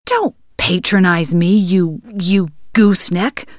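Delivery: angry insult. Acted. Angry woman insults him.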